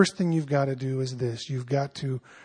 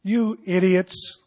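mock angry Paul; slower than usual. Shown as a demonstration. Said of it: "Do you think he was ticked?".

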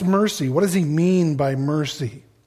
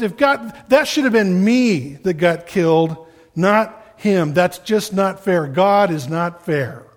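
raised, aggrieved plea to God; grieving protest; 3 semitones higher, 4 dB louder than usual. Retold or imitated. Friend grieving a death, protesting to God, aggrieved and raised. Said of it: "He says".

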